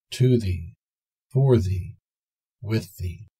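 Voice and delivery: tender, softening to a hush at "with thee"; loving and penetrating. Acted. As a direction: breathe each phrase as a loving vow. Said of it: "with an accent loving and penetrating".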